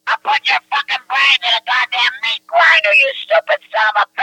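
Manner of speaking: high-pitched screaming rage; raging, voice pushed way up high; furious threat. Real, not acted.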